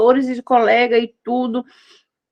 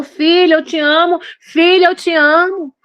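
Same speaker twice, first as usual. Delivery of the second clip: tender father's voice; 5 semitones higher than usual. Acted. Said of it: "Eu cheiro teus cabelos e falo".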